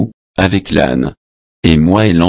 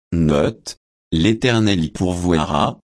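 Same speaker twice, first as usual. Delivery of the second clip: quiet aside; 6 dB quieter than usual. Real, not acted. Reader's aside on translation note.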